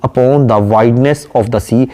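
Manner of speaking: slow, measured reading of a poem line; poem recitation. Acted. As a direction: recite it slowly and deliberately. (धीमी, ठहरी हुई कविता-पाठ की आवाज़)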